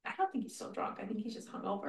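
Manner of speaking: soft, secretive whisper. Real, not acted. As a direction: whisper so he can't overhear. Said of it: "sorry I'm whispering".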